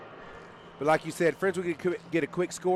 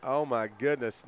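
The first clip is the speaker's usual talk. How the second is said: amazed; 4 semitones lower, 6 dB quieter than usual. Real, not acted. Amazed after trick play.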